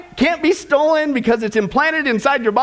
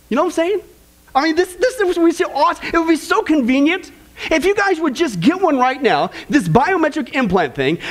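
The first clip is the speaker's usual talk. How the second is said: sarcastic sales pitch; 3 semitones higher than usual. Pretend. Mock salesman pushing implants.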